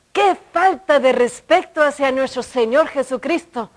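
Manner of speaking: emphatic, fairly loud retold reprimand; imitated scolding shout. Older woman humiliating her before everyone, imitated shout. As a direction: scold as if publicly shaming someone. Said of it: "pero me gritó".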